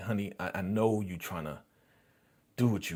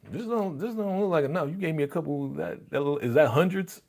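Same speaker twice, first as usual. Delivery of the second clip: higher, bratty imitated complaint; mock girlfriend; 8 semitones higher than usual. Girlfriend handed lunch money, high mock complaint. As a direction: mimic her turning up her nose.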